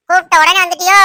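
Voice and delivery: scolding mother-in-law, sarcastic and loud; sarcastic jab. Acted. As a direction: needle her with a mock question.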